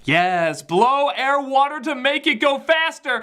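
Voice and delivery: ordinary talk, nothing marked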